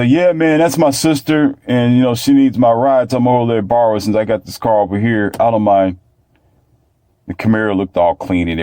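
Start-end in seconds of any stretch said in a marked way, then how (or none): 0.0-6.0 buddy voice. Retold or imitated. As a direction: toss it off like a carefree buddy. Friend's casual reply, voiced.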